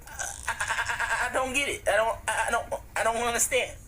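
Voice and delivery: Porky Pig stutter. Acted. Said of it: "you sound like Porky Pig".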